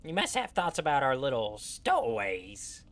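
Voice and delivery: lightly voiced gnome; a touch of gnome squeak; Grupham's gnome voice. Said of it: "this is my gnome voice for Grupham".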